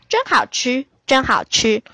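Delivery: lightly voiced happy hen, punched words; a hint of hens clucking over tasty food. A narrator's reading. Hens gobbling flowers in the garden, lightly clucking. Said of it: "一边吃还一边咯咯叫".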